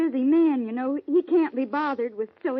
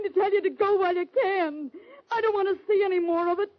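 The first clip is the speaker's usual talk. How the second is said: begging through sobs, higher and faster; tearful pleading; 4 semitones higher than usual. Acted. Frightened wife begging Ben to leave, tearful. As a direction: voice cracking with tears as she pleads. Wife begs him to flee.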